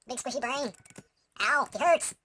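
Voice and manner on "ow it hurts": high, loud yelp of pain; mock pain cry. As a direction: cry out as if hit. Hurt by boss in game.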